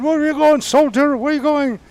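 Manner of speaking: loud, high shout of an officer on the range; officer's shout. Retold or imitated. Officer yelling at a leaving soldier, loud shout. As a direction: bellow at the soldier walking away. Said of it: "The guy in the top".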